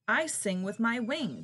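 high, loud, slow chirp; chirping cricket. Acted. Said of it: "chirped the cricket".

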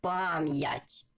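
пам'ять with a clear y-glide after м; carefully sounded "pam-yat" for пам'ять; with apostrophe. Shown as a demonstration. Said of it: "Повторюю".

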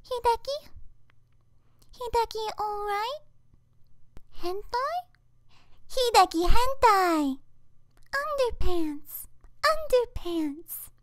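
put-on high soft childish calls; high cute anime girl. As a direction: call out sweetly like a small girl. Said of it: "that was all my voice acting".

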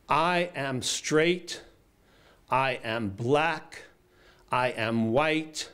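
slow, measured proclamation, each phrase set apart by long pauses; retelling a commanding public declaration in a mild, drawn-out way; Maya Angelou booming. Retold or imitated. To a crowd of church protesters, a slow mock-booming declaration. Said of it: "in this big, be-, booming vice".

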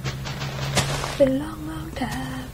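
slow, drawn-out mock sentiment; hammed-up relief. Back home, melodramatically glad. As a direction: savour each word, melodramatic. Dramatic homecoming speech.

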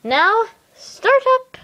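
high, slow, loud command; stern teacher order. Pretend. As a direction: order them to start, drawn out.

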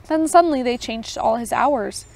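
even storytelling read; story narration. A narrator's reading. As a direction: read the tale aloud for listeners. Reads Tolkien story aloud.

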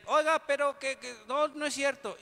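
mock child cutting in; cheeky child interrupting. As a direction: butt in like a nosy kid.

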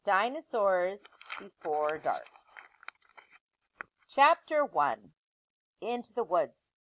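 put-on lively read-aloud voice for children; story narration. Teacher reading a chapter book aloud to her class.

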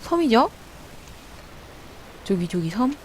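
lisping through dental braces; 지읒 slurred by braces. Real, not acted. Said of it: "지읒 발음이 안 되는 것 같아".

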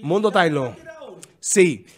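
ordinary talk

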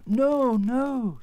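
high, loud protest easing off; emphatic denial. Acted. Scarecrow reassuring the frightened queen, emphatic. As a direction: rush to correct her.

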